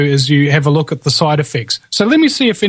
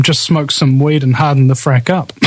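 laughing while reading. Real, not acted. Reads chat comment, laughing.

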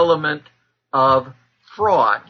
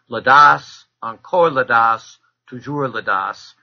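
French with foreign accent; 4 dB louder than usual. Real, not acted. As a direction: quote a French saying in an accented, deliberate way. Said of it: "for my accent".

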